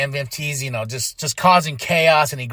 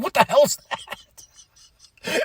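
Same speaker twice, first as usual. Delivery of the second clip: higher, slow, incredulous wrestler voice; mock Sammy; 10 semitones higher, much slower than usual. Sammy reacting to the gingerbread man, slow and incredulous. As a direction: drag it out like a baffled heel.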